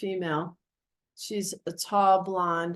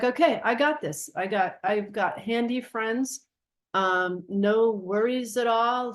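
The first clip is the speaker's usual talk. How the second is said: retold can-do assurance, a bit higher; breezy confidence; 3 semitones higher than usual. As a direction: play it lightly cocksure. Retold breezy confidence about the job.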